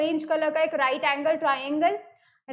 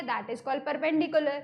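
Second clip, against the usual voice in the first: slow term; much slower than usual. Shown as a demonstration. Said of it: "teacher names key term".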